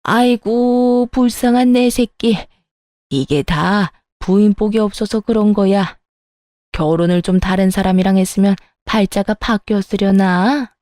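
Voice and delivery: mother-in-law whining about her son's bad luck in marriage; whiny mother-in-law. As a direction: drag out the "아이고" and whine over her poor son. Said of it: "엄청 징징거리는데".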